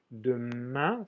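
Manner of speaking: Demain, with a nasalized final vowel; nasal ending. Shown as a demonstration. Teacher pointing out the sound in French tomorrow, nasal ending. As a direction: stretch the -ain of Demain through the nose, n unsounded. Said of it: "soy de una sal".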